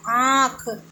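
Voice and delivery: आँख with a long vowel through nose and throat; drawn-out nasalised आँख. Shown as a demonstration. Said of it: "नाक से भी आया और गले से भी आया।".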